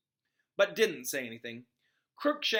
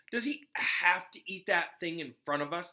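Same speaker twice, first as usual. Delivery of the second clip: scowling; 5 semitones higher, 4 dB louder than usual. Acted.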